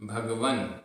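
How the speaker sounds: भगवन with half न, no vowel after it; half n ending. Shown as a demonstration. Teacher models the half न in भगवन. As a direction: end भगवन on a bare न sound. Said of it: "आधा न".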